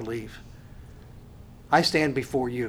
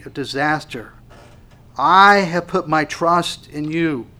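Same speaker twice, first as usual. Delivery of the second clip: louder, pleading prayer that slows down; crying out to God; 3 semitones higher, 6 dB louder than usual. Retold or imitated. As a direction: cry out for refuge. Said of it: "he cries out to God".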